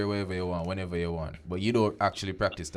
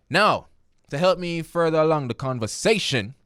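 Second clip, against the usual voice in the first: high, loud radio-host hype; big on-air announcer lift; hyped host intro; 8 semitones higher, 7 dB louder than usual. Real, not acted. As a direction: pump up the audience. Radio host launching segment.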